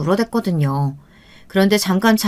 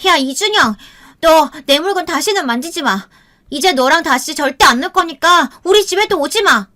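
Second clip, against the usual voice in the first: put-on high-pitched angry little girl; child's angry yell; 8 semitones higher than usual. A narrator's reading. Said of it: "조카에게 다가가 소리를 질렀어요". (화가 나서 소리치는 여자아이 목소리)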